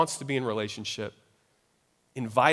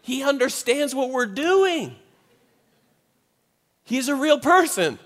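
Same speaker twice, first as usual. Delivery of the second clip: teary awe; 10 semitones higher than usual. Retold or imitated. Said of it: "I just, I started crying".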